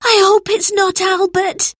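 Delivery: fearful hope for a friend; worried cry. A narrator's reading. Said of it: "cried George".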